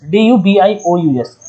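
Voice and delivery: each letter said slowly and clearly; slow spelling out. Shown as a demonstration. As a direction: spell the word out slowly for the class. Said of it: "डूबियस". (धीरे-धीरे अक्षर बोलना)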